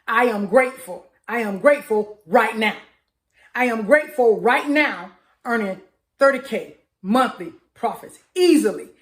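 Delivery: firm, steady gratitude affirmation; affirmation demo. Shown as a demonstration. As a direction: declare it like it's already yours. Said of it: "That is how I say that one".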